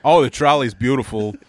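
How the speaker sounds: halting impression with long odd pauses; Christopher Walken. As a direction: break the sentence in strange places, like the actor. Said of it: "show him exactly how you would say".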